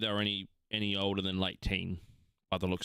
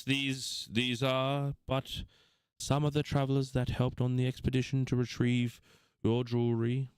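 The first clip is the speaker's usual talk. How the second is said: Aldeus, bored; 4 semitones higher than usual. Acted. GM voices Aldeus to princess.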